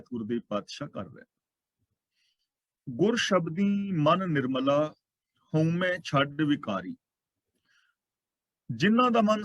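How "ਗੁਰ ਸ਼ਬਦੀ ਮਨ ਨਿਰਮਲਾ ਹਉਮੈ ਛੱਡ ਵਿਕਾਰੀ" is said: slow, measured chanting of the verse; slow scripture recitation. Acted. Preacher reciting a verse to the congregation, slow and measured. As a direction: lay out each word of the holy line, unhurried.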